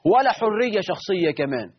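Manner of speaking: retold complaining woman. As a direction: mimic her complaint with a touch of indignation. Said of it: "وتقول لك".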